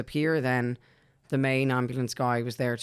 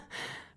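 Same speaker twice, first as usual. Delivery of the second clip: very soft, brief mock laugh; imitated disbelieving laugh; 15 dB quieter than usual. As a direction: let out a small laugh of disbelief, re-enacted. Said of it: "I kinda let out a".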